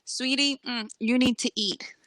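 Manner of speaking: slow, sugary granny reproach; old lady scolding. Retold or imitated. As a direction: sweetly scold her like a seventy-year-old. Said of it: "eighty-year-olds like".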